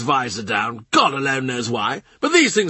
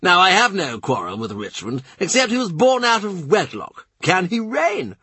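much higher, hectoring and insistent; Norfolk demanding; 9 semitones higher than usual. A narrator's reading. Norfolk lecturing the courtiers on succession, demanding and high. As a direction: hammer each question at them. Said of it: "Norfolk demands".

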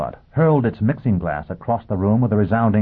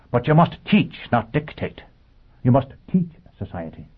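high, earnest robot voice; a machine preaching with conviction; 7 semitones higher than usual. Acted. Robot lecturing Foyle.

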